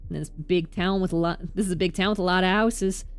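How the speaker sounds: game character lines. Acted. Voicing game dialogue.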